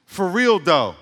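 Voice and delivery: Ebonics, drawn out and emphatic; demonstrated Ebonics phrase. Shown as a demonstration. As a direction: say it in punchy Ebonics, falling at the end. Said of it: "this is Ebonics".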